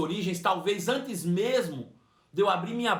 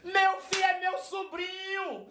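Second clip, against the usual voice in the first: much higher, slow, drawn-out exclamation; amazed old aunt; 10 semitones higher, slower than usual. Retold or imitated. Old aunt realizing the stranger is her nephew, high and slow amazement. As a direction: savour the discovery, slowly and high. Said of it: "ela fez assim".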